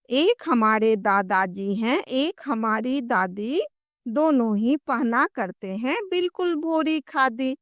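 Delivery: put-on sing-song children's poem recitation; कविता पाठ. Shown as a demonstration. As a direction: recite the rhyme in measured lilting lines, stretching line ends. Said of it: "हम लोग कविता पढ़ते हैं". (लय में बाल कविता का पाठ)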